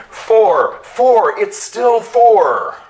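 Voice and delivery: loud high yells over the din; yelling. A narrator's reading. Twirl yelling over the avalanche, loud and high. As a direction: shout through the chaos. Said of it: "you could still hear Twirl yelling".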